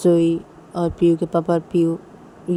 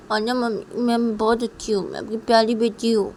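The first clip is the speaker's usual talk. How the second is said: little daughter; 5 semitones higher than usual. Acted. Daughter gives in to mother.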